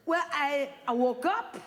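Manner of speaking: hammed-up clueless boyfriend; clueless guy. Guy answering his girlfriend about feelings, mock dim. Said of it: "You ask a guy".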